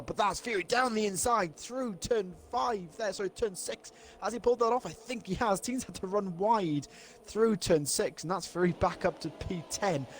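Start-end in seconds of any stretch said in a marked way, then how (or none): 0.0-8.2 rising, quickening live call of a battle; excited race commentary. Real, not acted. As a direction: call the overtake as it happens.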